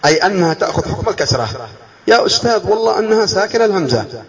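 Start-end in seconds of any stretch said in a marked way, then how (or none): 2.1-4.2 higher-pitched pupil's objection; mock student protest. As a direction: plead with the teacher in a higher voice. Voices a student protesting to teacher.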